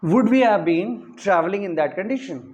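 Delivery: very slow, word by word, like dictating to a class; slow, deliberate dictation pace. Shown as a demonstration. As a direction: spell the sentence out slowly for students to write. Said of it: "teacher dictating English sentence".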